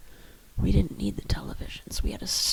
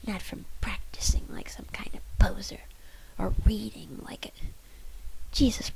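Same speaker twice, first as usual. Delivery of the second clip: angry rant; 2 semitones higher, 5 dB louder than usual. Acted. Leslie lashes out at bandmates.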